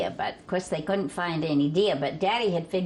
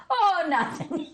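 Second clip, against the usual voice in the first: high innocent reply; 10 semitones higher than usual. Retold or imitated. Hired man answers in story.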